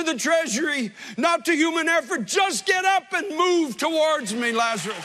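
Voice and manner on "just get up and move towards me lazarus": Christ calling. Acted. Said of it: "that voice of Christ calling your name".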